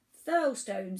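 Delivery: loud rumbling island voice; deep rumbly voice. A narrator's reading. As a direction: boom it out like a huge island. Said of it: "in a deep rumbly voice".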